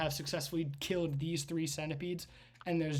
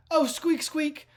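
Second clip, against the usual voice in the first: high, louder squeaky rat character; rat guy; 7 semitones higher, 7 dB louder than usual. Acted. Rat guy thanking the party for help, high squeaky voice. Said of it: "the rat guy goes".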